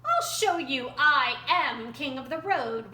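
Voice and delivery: loud furious snake shout; angry shout. A narrator's reading. Rattlesnake shouting his claim at Roadrunner. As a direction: bellow the threat. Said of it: "Rattlesnake hissed, shouted".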